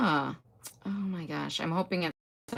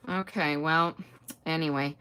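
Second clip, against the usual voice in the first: normal talking voice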